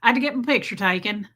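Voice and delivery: Southern belle twang, said fast; Paula Deen. Retold or imitated. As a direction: mimic a Southern accent in mock horror. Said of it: "Did I just Paula Deen that shit?".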